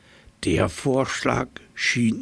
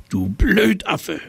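high slow scolding snort; angry snort; 10 semitones higher, 3 dB louder than usual. A narrator's reading. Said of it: "schnaubte das Nilpferd den Affen an".

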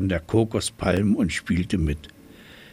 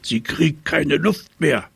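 higher, alarmed hippo voice; snorting hippo; 6 semitones higher than usual. A narrator's reading. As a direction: sound worried, a bit higher. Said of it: "schnaubte das Nilpferd".

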